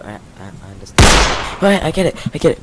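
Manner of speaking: frantic, loud stammering plea; pleading at gunpoint. Acted. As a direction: beg for your life, loud. Hostage skit at gunpoint.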